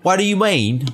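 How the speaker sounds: high-pitched put-on British accent; mock British accent. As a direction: protest in a hammed-up British accent. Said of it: "That's how people talk".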